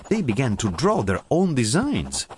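ordinary delivery, nothing marked

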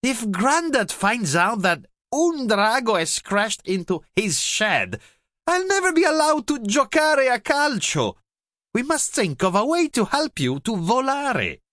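put-on high, urgent child's voice; little girl worried about Grandad; fretting girl. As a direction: plead with worry. Zoe frets about Grandad.

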